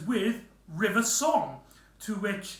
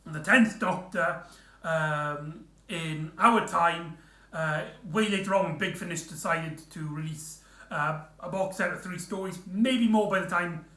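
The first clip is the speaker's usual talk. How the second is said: talking through hiccups; speech broken by hiccups; hiccuping. Real, not acted. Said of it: "Sorry, I keep hiccuping or something".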